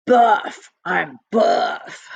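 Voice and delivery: a hint of a proud strongman saying buff; mock tough guy. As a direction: puff up and say buff like a bodybuilder. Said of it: "Show me your muscles".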